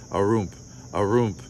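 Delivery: clunky, creaky haunted-house noise; imitated ghost noises. A boy imitating a ghost in his story, creaky noises. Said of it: "make all kinds of clunky".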